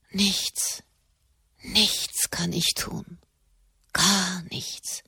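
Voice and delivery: soft, slow and hopeless. Acted. Katharina verzweifelt über Ohnmacht. (leise, hoffnungslos, langsam)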